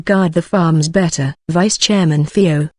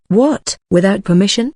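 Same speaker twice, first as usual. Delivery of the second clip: shocked; 3 semitones higher than usual. Acted. Shocked by the message.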